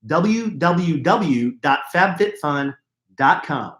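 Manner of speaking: w w w dot fab fit fun said slowly, word by word; slow spelled-out URL. Shown as a demonstration.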